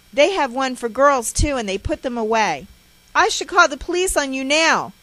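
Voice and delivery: loud, high ranting mother; sustained furious scolding; harsh tirade. A narrator's reading. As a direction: berate and threaten the child at a shout. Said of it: "She continues her harsh tirade".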